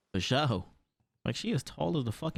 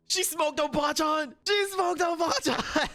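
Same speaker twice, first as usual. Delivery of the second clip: outraged; 11 semitones higher than usual. Real, not acted. Outraged at a character's death.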